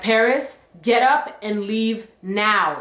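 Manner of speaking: slow, mock stern teacher; a hint of a stern order, slowed. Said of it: "he's trying to give me a stern voice".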